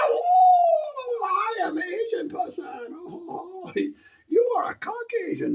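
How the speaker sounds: put-on high, slow caricatured accent; hammed-up offensive accent; mock Asian accent. Mocking an Asian caricature, high put-on accent. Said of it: "he's gonna get canceled".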